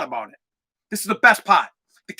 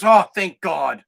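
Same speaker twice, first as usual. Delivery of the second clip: slow, lowered, relieved exhale of words; imitated relief; 4 semitones lower, slower than usual. Imitating the nurse hearing an easygoing parent, relieved. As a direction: sigh it out slowly, mock-relieved. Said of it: "she took a sigh of relief".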